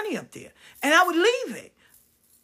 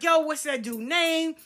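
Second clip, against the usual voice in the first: mock angry shout; 6 semitones higher than usual. Asking people upstairs about the thief, angry shout. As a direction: call out to the room, fired up.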